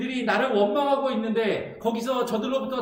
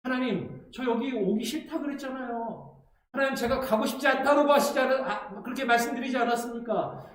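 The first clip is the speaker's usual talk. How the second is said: resentful Moses; 3 semitones higher than usual. Retold or imitated. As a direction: grumble at God like a reluctant messenger. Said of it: "라고 지금 모세를 원망하고 있는 것이죠".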